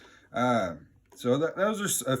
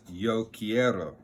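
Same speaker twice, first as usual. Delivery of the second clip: slow demo; slower than usual. Shown as a demonstration.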